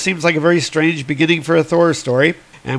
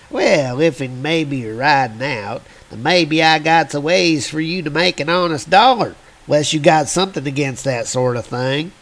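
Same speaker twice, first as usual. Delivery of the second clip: put-on old prospector. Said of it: "old prospector character".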